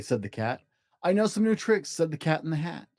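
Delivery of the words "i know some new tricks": higher, bouncy cat voice; playful cat. Acted. Cat to the bored children, higher and playful. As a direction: sell the games like a show-off cat.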